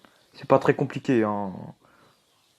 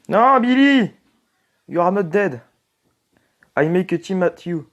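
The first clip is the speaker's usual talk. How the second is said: mock English plea; 6 semitones higher, 6 dB louder, slower than usual. Playful English at game character.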